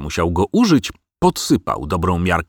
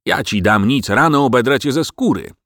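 mildly raised threatening voice; 4 semitones higher than usual. Acted. Farmer at the window to his dog, threatening. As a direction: threaten the dog, pitch climbing. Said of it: "zagroził gospodarz".

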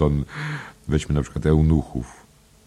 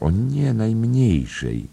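much higher, drawn-out demurral; coy reassurance; 7 semitones higher, slower than usual. Acted. Miss Kennedy assures the gentleman, high and drawn out. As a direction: sing it out sweetly, slowly.

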